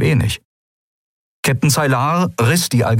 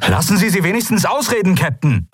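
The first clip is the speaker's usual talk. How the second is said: called out plea; 11 semitones higher than usual. Acted. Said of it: "rief Sephiron".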